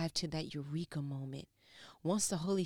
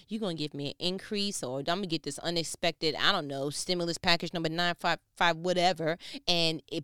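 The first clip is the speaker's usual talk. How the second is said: louder, building declaration; rising preaching; 7 dB louder than usual. Acted. Preacher declares God will provide, building louder. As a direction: drive it home, getting louder.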